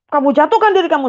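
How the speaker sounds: high, loud command; angry father. Retold or imitated. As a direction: hurl the order at her. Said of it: "ayah mengusir anak". (bentakan ayah)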